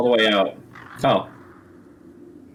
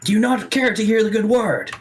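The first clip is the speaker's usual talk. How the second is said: ghost voice; 11 semitones higher than usual. Acted. Ghost NPC pleading.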